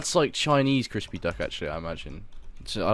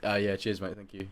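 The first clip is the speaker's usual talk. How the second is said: phone voice; 4 semitones lower, 7 dB quieter than usual. Real, not acted. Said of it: "The speaker has his phone voice on".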